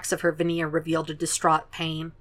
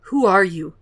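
demanding. Acted. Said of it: "he demanded".

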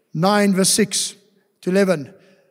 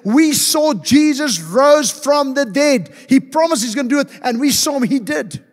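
guards blurting it out, raised and urgent; we saw it ourselves, tell him fast; excited report; 4 semitones higher than usual. Retold or imitated. Guards report to high priest.

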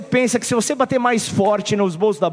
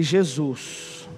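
desperate prayer; 7 semitones lower, 7 dB quieter than usual. Retold or imitated. Lost abroad, desperate prayer.

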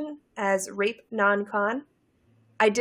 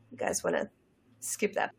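whisper; 9 dB quieter than usual. Real, not acted. Aside warning listeners to skip.

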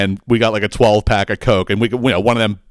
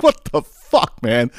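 exasperated; much slower than usual. Retold or imitated. His reaction to beach patrol.

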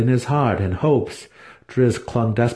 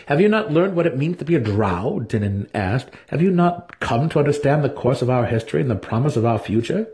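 higher, pointed questioning tone; drow elder brother; 5 semitones higher than usual. Acted. Dinin pressing Driz about drow history: pointed questioning. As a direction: lean on him like a superior sibling.

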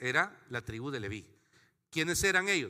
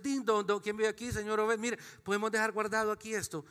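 polite caller; 6 semitones higher than usual. Retold or imitated. Acted doorbell visit to Obed.

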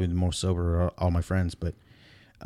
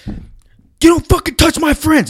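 huge, high, slow bellow; drunken furious roar; 12 dB louder, slower than usual. Retold or imitated. Drunk friend Steven roaring at the guy, furious slow bellow.

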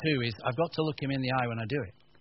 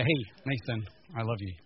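sincere; 3 semitones lower, 3 dB quieter than usual. Shown as a demonstration. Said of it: "I've gotta look at him and say".

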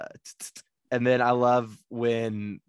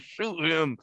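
gritted teeth; 4 semitones higher than usual. Retold or imitated. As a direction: say it through clenched teeth. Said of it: "with his teeth gritted".

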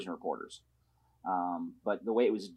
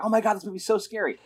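imitating roommate; 10 semitones higher than usual.

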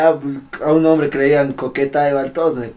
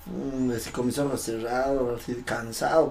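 acted tiredness; 7 dB quieter than usual. Recruit standing in the cold, eyes shut, mildly weary. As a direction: act out shivering tiredness lightly. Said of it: "Me estaba así, mm".

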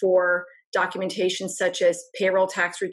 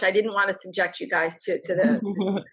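chewing while talking. Real, not acted. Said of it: "I'm eating my lunch".

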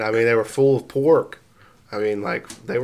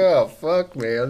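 shocked exclamation; 5 semitones higher, 5 dB louder, much slower than usual. Retold or imitated. Retold reaction to hot sauce.

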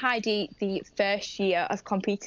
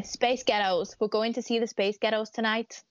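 a light attempt at a Scottish accent; a shy, half-hearted try at a Scottish accent. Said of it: "That's all I can say is Scottish".

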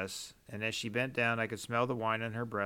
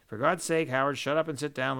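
louder, higher exasperated snap; angry outburst; 4 semitones higher, 6 dB louder than usual. Acted. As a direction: cut him off, fed up. Farmer interrupts the mayor angrily.

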